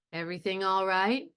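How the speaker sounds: slow and careful, calm; slowly. Shown as a demonstration. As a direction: drag it out carefully. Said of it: "he's going to say it slowly".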